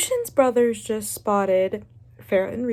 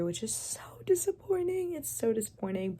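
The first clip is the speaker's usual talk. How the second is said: disappointed whine; 7 dB quieter than usual. Real, not acted. Complaining about cut scenes.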